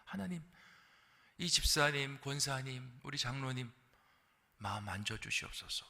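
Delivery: soft, murmured intercession; hushed prayer. Retold or imitated. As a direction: pray softly over the sick. Praying over the sick.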